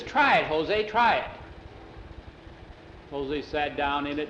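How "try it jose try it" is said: higher-pitched, excited coaxing; eager urging. Acted. Jackie wants Jose in the mended rocker, eager. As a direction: urge him on, punching each try.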